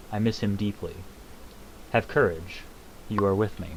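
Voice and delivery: lightly voiced calm, solemn being; Hermaeus Mora voice. A hint of Hermaeus Mora reassuring the hero. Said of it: "I do a better Hermaeus Mora than I do Alduin".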